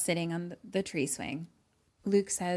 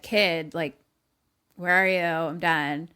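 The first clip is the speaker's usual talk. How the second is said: calling out; 6 dB louder, slower than usual. Retold or imitated. Retold boy calling for absent Luke.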